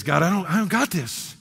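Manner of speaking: admitting need to God; humble pleading prayer; desperate confession. Pretend. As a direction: voice rising into a plea. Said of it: "best words you can say".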